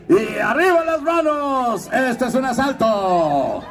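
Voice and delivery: high, slow goofy cartoon voice; high dopey cartoon robber. Shown as a demonstration. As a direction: stretch it out like a silly cartoon dog. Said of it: "Después de estar así".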